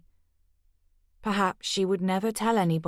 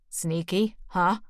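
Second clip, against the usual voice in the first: put-on New York accent; slower than usual. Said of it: "doing a convincing impression".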